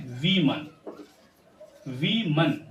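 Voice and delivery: "वीमन" as "vee-mun"; long ee then "mun" in "वीमन"; correct plural pronunciation. Shown as a demonstration. Teacher modelling the plural, "वीमन" as "vee-mun". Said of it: "इसे हम पढ़ेंगे".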